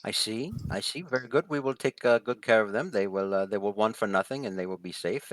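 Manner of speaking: measured, gracious in-character assurance; lightly voiced assuring hostess. Hostess promises Dex the guests will be safe, lightly gracious. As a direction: promise protection as a composed hostess. Game master voices Floor.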